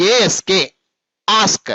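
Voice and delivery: ఏఎస్కే run together as one unit; joined letters. Shown as a demonstration. Teacher modelling for pupils how to say it, ఏఎస్కే joined without breaks. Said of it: "అన్ని కలిపేసి చెప్పేస్తూ ఉండాలి".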